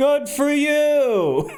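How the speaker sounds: put-on very high stoner voice with a drawn-out "you". After Zhao Yun's emotional speech on horseback, Peng Tong replies, in Peng Tong stoner voice. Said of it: "It's a stoner voice".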